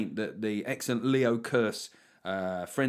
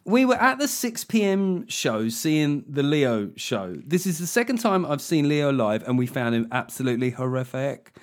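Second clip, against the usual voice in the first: patronising, whiny; 3 semitones higher, 4 dB louder than usual. Acted. Host reads out a club complaint about a comedian, patronising whine. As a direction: read it as a whiny, condescending complaint. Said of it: "in a really patronising, sort of whiny fucking voice".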